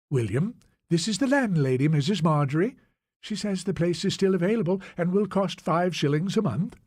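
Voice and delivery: a hint of a wife making introductions; lightly voiced Scottish wife. Wife introduces landlady to her husband, in a lightly voiced Scottish manner. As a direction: lift the pitch slightly for the wife.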